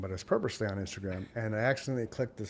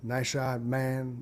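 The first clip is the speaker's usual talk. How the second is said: offhand, everyday delivery; very casual; much slower than usual. Shown as a demonstration. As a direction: toss it off casually, no celebration. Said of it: "It's very casual".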